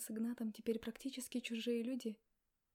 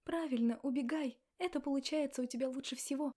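loud angry taunt; flung at his back; 3 semitones higher, 5 dB louder than usual. Acted. Woman taunting him as he walks away, loud. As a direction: hurl it after him, louder. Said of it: "бросила Максу в спину".

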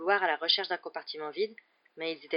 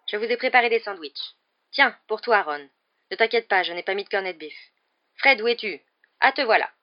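high, loud mother handing out food; higher, louder voice of a busy mum; bustling mother; 4 semitones higher, 10 dB louder than usual. A narrator's reading. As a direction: fuss briskly over the children, raised voice.

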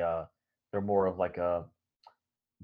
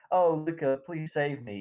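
higher, a half-hearted whimpering cry for help; mock crying plea; 8 semitones higher than usual. Nina crying out to Luca for rescue, mock whimpering plea. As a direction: plead like a hammed-up damsel. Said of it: "later she's crying".

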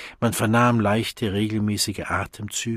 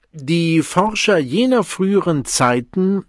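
raised lecturing voice; 9 semitones higher, 9 dB louder than usual. Acted.

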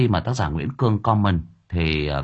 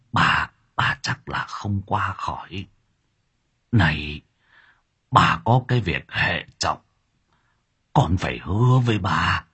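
dying elder pleading with her son to promise; weak dying grandmother voice. Acted. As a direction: force out each word with effort. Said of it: "mới cố gượng vài câu".

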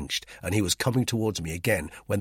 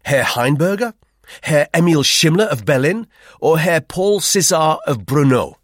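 loud, high and cutting; loud defiant snap, slowing at the end; snapping; 8 semitones higher, 12 dB louder than usual. A narrator's reading. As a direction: fire each name like a threat. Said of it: "I snapped".

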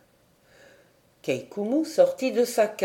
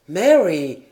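distraught cry; 7 dB louder than usual. A narrator's reading. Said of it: "s'écria le jeune capitaine éperdu".

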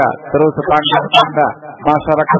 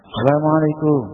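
gentle greeting. Shown as a demonstration. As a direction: say Assalamualaikum with mercy in the voice. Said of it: "dengan bahasa yang rahmah".

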